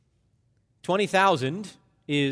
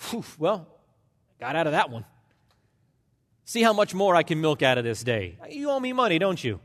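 smug relief; faster than usual. Acted. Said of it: "his attitude seems to be".

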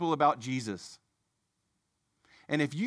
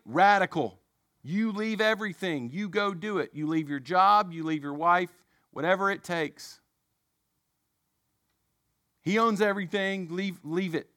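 mock fiery preacher; 4 semitones higher than usual. Mimicking the teacher's sermon to his class, mock fiery preaching. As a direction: ham up the zealous teacher urging people to leave it all. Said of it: "he made this statement".

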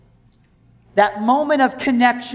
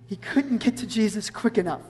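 softer, reflective emphasis; hushed repetition; 6 dB quieter than usual. Real, not acted. Preacher repeating the point to the congregation, hushed. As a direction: drop the voice to let it sink in.

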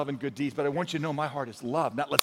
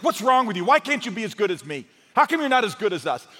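arrogant; 4 semitones higher, 4 dB louder than usual. Retold or imitated. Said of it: "if you do it with arrogance".

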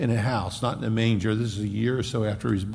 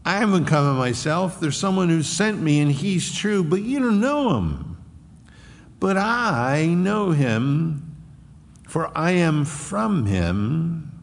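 declaring; 5 semitones higher than usual. Acted. Jesus declaring to crowd.

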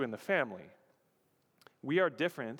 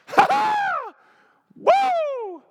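very loud, high-pitched shrieked "ha ha" and "woo"; exuberant whoop; 13 dB louder, much slower than usual. Acted. Preacher acting out the end of a long wait, exuberant whoop. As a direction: whoop at the top of your range. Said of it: "this feeling of exuberance".

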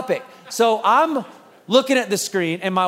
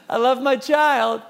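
sweet public parent; 3 semitones higher, slower than usual. Retold or imitated. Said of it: "We're like".

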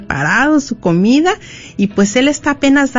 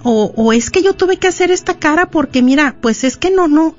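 higher-pitched mock indignation at a touchy partner; acted defensive spouse; 6 semitones higher than usual. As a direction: act out a spouse making excuses, pitched up. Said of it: "y luego tú dices". (cónyuge a la defensiva, actuado)

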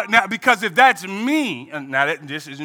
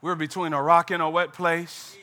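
Moses complaining; 5 semitones lower, 6 dB quieter than usual. Acted. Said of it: "Moses like".

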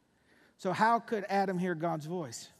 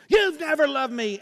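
mock accusation; 7 semitones higher, 8 dB louder than usual. Addict accuses family.

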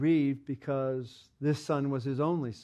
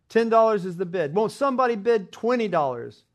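louder, pushing for a higher bid; auctioneer calling out; 6 semitones higher, 6 dB louder than usual. A narrator's reading. Auctioneer calls out loudly to the crowd for twenty dollars. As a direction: sell it to the room, calling out.

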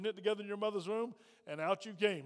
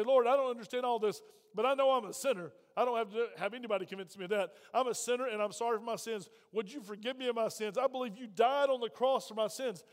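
earnest, slightly raised praying voice; sinner's prayer. Acted. Preacher modelling a sinner's prayer for the congregation, earnest and insistent. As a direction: pray it out firmly, phrase by phrase.

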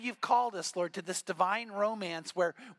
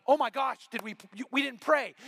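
mock alarm; 3 semitones higher, 4 dB louder than usual. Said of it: "and I'll go".

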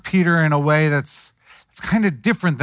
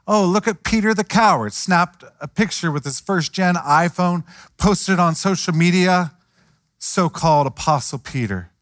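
sneering mockery of a coward, a touch higher; mock public shaming; 3 semitones higher than usual. Preacher mocks Peter as a coward, lightly sneering. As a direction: taunt him like a social media post. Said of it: "He also could have shamed him".

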